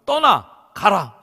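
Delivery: loud, punchy orders; terse command. Acted. God's call to Abraham summed up, commanding. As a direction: fire off each word as a command. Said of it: "딱 요약하면".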